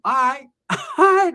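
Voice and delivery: breaking into laughter mid-word; real laugh cutting in. Real, not acted. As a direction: laugh through the words. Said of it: "laughing while telling".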